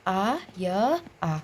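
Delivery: "आ", "य", "आ" said apart; sounds one by one. Shown as a demonstration. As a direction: split "आया" letter by letter. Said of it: "कैसे तोड़ा?". (वर्ण अलग करके बोलना)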